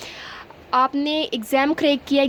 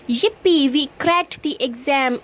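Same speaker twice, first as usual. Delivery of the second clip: cheering; much slower than usual. Shown as a demonstration. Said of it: "तो आप बोलेंगे".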